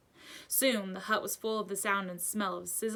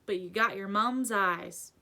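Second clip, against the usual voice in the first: gentle giant reminiscing; fond giant; 3 semitones higher, 5 dB louder than usual. A narrator's reading. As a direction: tell Harry he looks like his dad. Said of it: "said the giant".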